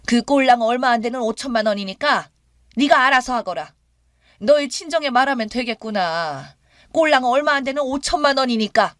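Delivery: mother-in-law mocking the daughter-in-law's words; sarcastic retort. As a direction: throw her word 꼴랑 back at her. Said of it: "기가 막히고 어이없어서".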